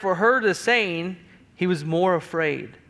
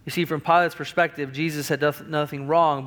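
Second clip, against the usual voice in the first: ordinary talk, nothing marked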